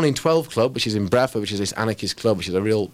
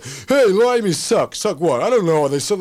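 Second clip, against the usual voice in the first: mock New Yorker; 7 semitones higher, 6 dB louder than usual. Mimicking a New York heckler jeering at a British poet. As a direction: jeer like a hostile New York crowd.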